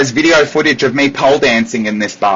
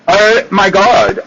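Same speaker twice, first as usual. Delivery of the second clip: slow shocked oh my God; 4 semitones higher, slower than usual. Retold or imitated. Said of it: "I was like".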